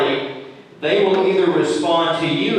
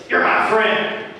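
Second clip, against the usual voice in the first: higher, insincere "You're my friend"; 4 semitones higher, slower than usual. Shown as a demonstration. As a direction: say it so nobody believes you. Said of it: "you're gonna think, "Uh, I don't think you are my friend".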